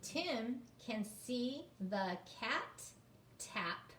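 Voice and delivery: very slow, word by word; slow read-aloud. Shown as a demonstration. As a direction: read it out for beginners. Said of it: "reading the story aloud".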